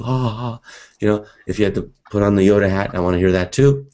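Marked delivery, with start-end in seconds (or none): 0.0-0.6 mock laughter. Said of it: "I want people laughing at you".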